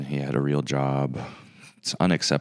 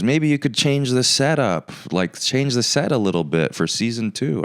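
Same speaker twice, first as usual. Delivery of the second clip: much higher, whiny imitation of the fan; mocking a fan; 7 semitones higher than usual. Host mimicking a fan's message, high mocking voice. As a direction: parody the fan's suggestion in a silly high voice. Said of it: "He goes".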